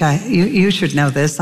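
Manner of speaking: lightly acted stammer; mild stutter. Moses making his excuse to the Lord, light stammer. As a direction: trip briefly over the first words. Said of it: "I've got a stutter".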